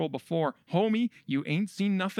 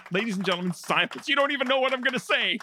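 rising, fast, hammed-up hype; mock hype announcer; 8 semitones higher, 3 dB louder, faster than usual. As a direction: fake excitement building up. Hyping the radio ad.

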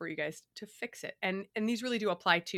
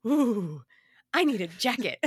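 put-on kid voice; 2 semitones higher, 8 dB louder, slower than usual. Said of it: "my kids will walk out and go".

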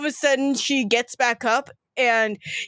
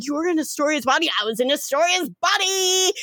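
incredulous exclaiming; 4 semitones higher, faster than usual. Acted. Incredulous back-and-forth about a body swap.

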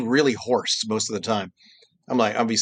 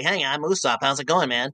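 calm Usopp; 2 semitones higher than usual. Shown as a demonstration. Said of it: "I would love to just do this all day".

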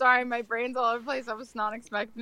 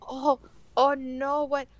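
put-on high, slow flustered old lady; flustered mumbling; 5 semitones higher, slower than usual. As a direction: fake distress, fumbling words. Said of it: "Just, like, mumbling".

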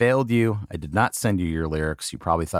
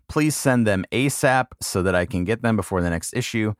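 lively, measured reading of someone else's letter; letter read aloud. Acted. Host reading an old mail-order letter to listeners, lively read-aloud. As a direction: read out the customer's written request clearly.

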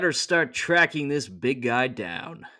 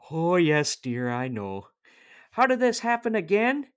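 Joseph voice; 6 semitones higher than usual. Acted. Joseph voice, high.

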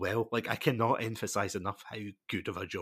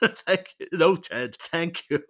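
laughing imitation; 7 semitones higher, 8 dB louder than usual. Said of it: "and he's like".

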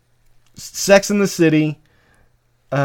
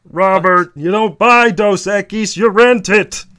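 raised, drawn-out sitcom brother voice; Raymond; 5 semitones higher, 4 dB louder, slower than usual. Acted. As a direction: crack wise to your brother. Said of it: "your brother says".

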